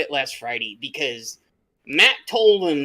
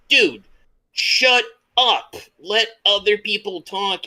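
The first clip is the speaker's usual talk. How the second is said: imitated scolding; 5 semitones higher, slower than usual. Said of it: "he goes".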